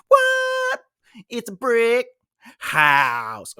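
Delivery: high squeaky shocked What; mock surprise. Teacher pretends shock at the brick house, high squeak. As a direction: gasp in high mock amazement.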